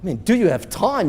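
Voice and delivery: amused disbelief at being asked; incredulous echo. Acted. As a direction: repeat it as if the question were absurd.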